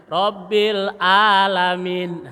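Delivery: "Rabbil alamin" with the ain said out front like hamzah; slow mock mistake on the ain; wrong ain. Shown as a demonstration. Teacher imitating a student's wrong ain. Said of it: "malah di-, dibaca di luar".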